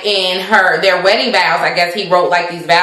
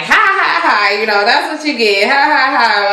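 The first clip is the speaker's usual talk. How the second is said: mock laugh; 4 semitones higher than usual. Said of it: "So she just starts laughing".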